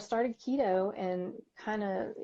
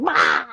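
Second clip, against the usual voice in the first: mock road-rage bah; 9 dB louder than usual. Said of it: "and you're like".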